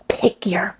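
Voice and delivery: slow, whispered menace; nasty hiss. Retold or imitated. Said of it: "he talked in a totally different voice".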